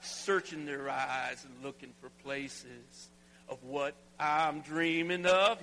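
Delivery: drawn-out Nashville twang; country twang. Shown as a demonstration. Pastor drawling the lyric to the church in slow country twang. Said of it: "get on my little Nashville groove here".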